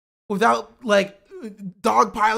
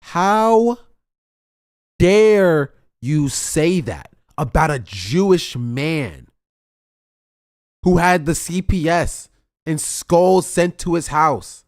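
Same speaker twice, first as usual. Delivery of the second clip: louder, slow, outraged scolding; mock indignant yell; 2 semitones lower, 8 dB louder than usual. Parodying Ethan scolding her, loud slow mock indignation. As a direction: ham up a self-righteous rant. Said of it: "And she's like".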